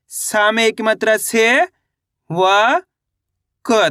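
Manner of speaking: drawn-out से, व, क with pauses between; letter-by-letter reading. Shown as a demonstration. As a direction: sound out से, व, क one by one. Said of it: "एक अक्षर का उच्चारण करके इनको पढ़ रहा हूँ". (एक-एक अक्षर अलग करके, खींचकर पढ़ना)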